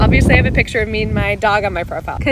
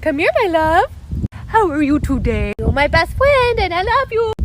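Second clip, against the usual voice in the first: higher, sing-song talk to a dog; pet-talk voice; 8 semitones higher than usual. Shown as a demonstration. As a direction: coo at him like your beloved dog. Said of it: "talk to your dog in a different tone".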